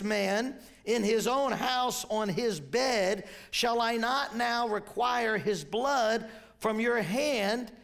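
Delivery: slow, weighty declamation; emphatic scripture reading. Acted. Preacher reading David's judgment to congregation, solemn emphatic declamation. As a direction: read it out deliberately, each phrase set apart.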